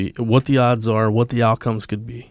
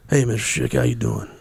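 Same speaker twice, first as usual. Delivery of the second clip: put-on lightly raspy old sergeant; a hint of gravel in the sergeant's greeting. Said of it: "He's got that raspy voice".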